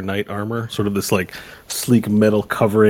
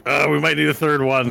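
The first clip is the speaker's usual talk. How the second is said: left-out Nash; 6 semitones higher than usual. Acted. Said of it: "a few that can't fit in".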